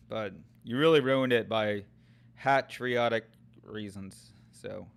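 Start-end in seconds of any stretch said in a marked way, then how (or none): 2.4-4.3 drawn-out, unimpressed delivery; slow, deliberate quote. Real, not acted. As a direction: spell out the offending phrase slowly. Names the phrase that ruined it.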